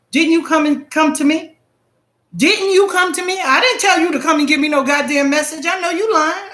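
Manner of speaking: retold confrontation, half-playing the anger; indignant retort. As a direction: call her bluff with rising heat. Confronting the woman about the spirit.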